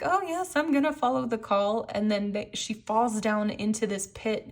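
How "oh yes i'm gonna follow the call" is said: entranced follower. Retold or imitated. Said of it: "walking blindly, like".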